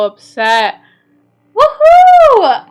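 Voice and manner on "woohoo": high, loud cheer breaking into a laugh; laughing whoop. Real, not acted. After the win, laughing cheer to chat.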